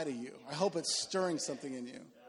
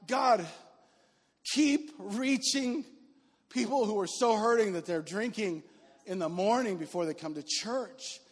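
fervent prayer. Retold or imitated. Pastor recalling his prayer for hurting visitors, fervent and slow. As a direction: pour out a grateful prayer, drawing out keep reaching.

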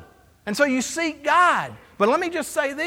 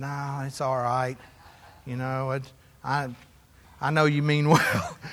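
gracious wife; 10 semitones lower, 4 dB quieter than usual. Retold or imitated. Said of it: "she's so gracious".

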